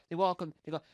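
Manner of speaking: ordinary delivery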